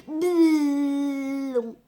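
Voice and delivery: loud drawn-out "boom"; imitated boom. A narrator's reading. Car driving past, loud imitated boom. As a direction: boom out the noise, stretched long.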